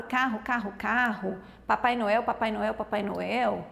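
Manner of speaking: same words looped in an even rhythm; echoing word repetition; repetitive echolalia. Shown as a demonstration. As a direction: repeat each word over like a stuck loop. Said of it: "fica falando a mesma palavra".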